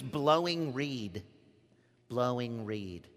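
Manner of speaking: mocking tone. Shown as a demonstration. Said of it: "you have to say it in that tone".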